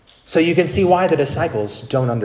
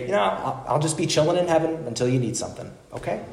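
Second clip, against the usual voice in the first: genie voice; 7 dB quieter, faster than usual. Retold or imitated. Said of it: "That he should say".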